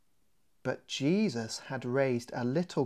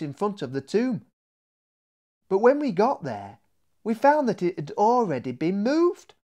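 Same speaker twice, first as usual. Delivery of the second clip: Mary's story; 4 dB louder than usual. Acted. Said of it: "Mary began".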